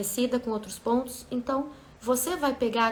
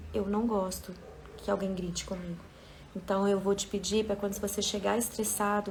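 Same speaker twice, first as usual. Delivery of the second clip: calm reply. Retold or imitated. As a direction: set a limit calmly after breathing. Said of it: "tomar um tempo pra respirar".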